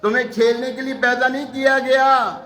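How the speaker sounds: eloquent cow voice. Acted. Talking cow addressing the boy Abdul Qadir, lightly grand and eloquent. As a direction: proclaim it like a solemn oracle. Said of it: "فصیح و بلیغ آواز میں".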